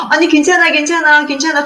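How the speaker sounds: put-on a mother patting her sobbing child calm; soothing mother.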